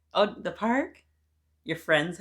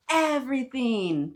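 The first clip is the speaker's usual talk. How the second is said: high, louder burst of joy; excited exclaim; 8 semitones higher, 7 dB louder than usual. Acted. Jayla answering her auntie, high excited exclaim. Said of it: "Jayla exclaims".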